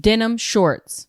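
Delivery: "Denim shorts" spelled out slowly, stress on "Denim"; slow explanation. Shown as a demonstration. Explaining jorts to a puzzled friend, slow and deliberate. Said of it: "And j-, and".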